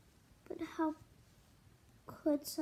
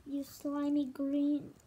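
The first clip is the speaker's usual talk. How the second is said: scared yell. Acted. Mom fleeing tadpoles.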